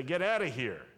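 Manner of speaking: loud, sharp order to leave; mock defiant shout. Believers ordering discouragement away, loud and sharp.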